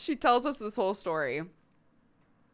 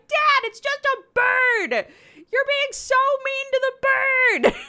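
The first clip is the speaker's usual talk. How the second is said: high whiny scold; 9 dB louder than usual. Retold or imitated. Daughter scolding her dad, a high, loud, whiny plea. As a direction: plead for the poor bird like a sulky kid.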